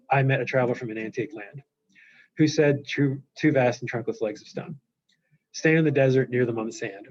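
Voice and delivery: choppy verse reading, pausing after "land", "stone", "sand"; line-by-line reading. Shown as a demonstration. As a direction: stop dead after each line, as if "land" and "stone" ended sentences. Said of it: "So you don't just read".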